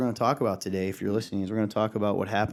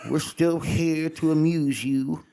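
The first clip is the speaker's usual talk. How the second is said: squeaky bickering rat chorus; 6 semitones higher, 4 dB louder, slower than usual. Pretend. Silly voices bit begins.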